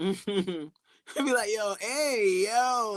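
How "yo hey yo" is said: put-on New York accent with a higher pitch. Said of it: "That's so New York".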